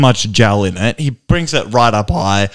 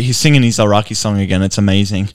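ordinary talk, nothing marked

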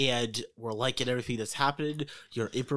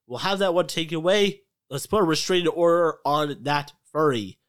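booming, pitched-up boss order; loud producer voice; 5 semitones higher, 9 dB louder than usual. Acted. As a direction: bark it like a pushy studio boss. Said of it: "I go".

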